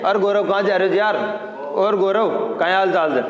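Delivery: imitating casual talk, गौरव as 'gorav'; casual mispronunciation. Teacher mimicking friends greeting Gaurav, casually mispronounced. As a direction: toss off गौरव with a plain 'o'. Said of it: "सभी ये कहते हैं".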